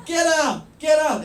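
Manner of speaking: retold yell. The angry man throwing the teller out, mock yell. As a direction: bark get out at him. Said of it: "he started yelling".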